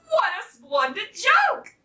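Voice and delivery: high, exclaiming cockerel; delighted exclamation. A narrator's reading. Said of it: "exclaimed Sir Cockerel".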